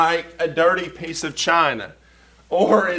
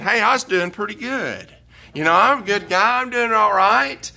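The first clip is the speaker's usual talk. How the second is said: smug Isaiah; 5 semitones higher than usual. Retold or imitated. Isaiah voiced as complacent.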